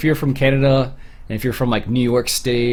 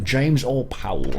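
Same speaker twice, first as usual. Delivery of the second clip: lightly put-on British accent; mock British accent; slower than usual. Shown as a demonstration. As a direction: say the name with a hint of amateur British. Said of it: "I would have a much different accent".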